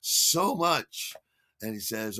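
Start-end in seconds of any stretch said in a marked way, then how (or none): 0.0-1.1 slow, drawn-out gushing thanks; slow, awed gratitude; starstruck thanks. Retold or imitated. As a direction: savor the moment, a bit dazzled. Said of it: "And I'm like".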